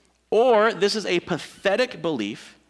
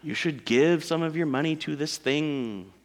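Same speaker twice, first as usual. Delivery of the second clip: mock swindler; 2 semitones lower, 4 dB quieter, slower than usual. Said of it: "Convincing you".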